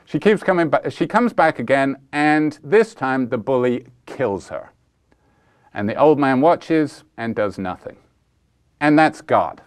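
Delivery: lightly preacherly telling, measured towards a grim ending; Jim Shelton's little sermon. Retold or imitated. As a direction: land the parable's ending like a modest retold sermon. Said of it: "a little sermon he told".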